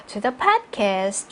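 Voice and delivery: "podcast" weighted in a slow reading; stress on podcast. Shown as a demonstration. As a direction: bring out "podcast" as key information. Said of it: "중요한 정보니까 강조해 주시고요". ("podcast"를 강조해서 천천히)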